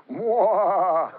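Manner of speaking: a mock villain's cackle, loud and high; evil Halloween laugh. Preacher mimics the sheikh's scary funeral laugh, mock evil cackle. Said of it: "he gave this evil laugh like Halloween".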